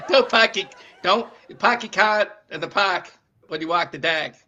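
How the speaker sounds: laughing Boston accent. Shown as a demonstration. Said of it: "don't say my R's".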